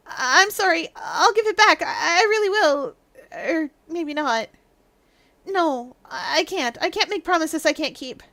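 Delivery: hesitant, lightly tearful character voice; timid apologetic suspect. Acted. Suspect apologizes for taking the urn, timid and wavering. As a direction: waver between promising and backing out.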